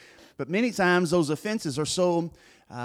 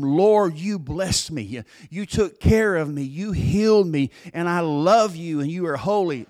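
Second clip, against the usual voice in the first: earnest prayer straight to God, louder at the start; sample worship prayer; 3 semitones higher, 3 dB louder than usual. Shown as a demonstration. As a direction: pray it directly to the Lord, sincerely. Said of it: "That's worship".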